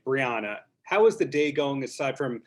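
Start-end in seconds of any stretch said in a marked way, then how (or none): 0.1-0.6 Brianna said bree-AH-nuh, with an open "ah"; corrected pronunciation. Real, not acted. Host addressing guest by her corrected name, bree-AH-nuh. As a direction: pronounce Brianna with the "ah" of "father". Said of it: "saying it the correct way".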